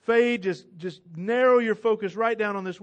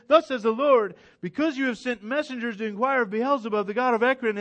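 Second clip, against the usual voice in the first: louder, higher prophetic proclamation; preaching at full force; 3 semitones higher, 4 dB louder, faster than usual. Acted. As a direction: thunder the verdict like Elijah. Elijah's verdict retold.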